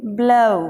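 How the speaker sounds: ब्लो as a drawn-out bluh-oo; diphthong. Shown as a demonstration. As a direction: glide uh into oo in ब्लो. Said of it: "क्या बोलना है".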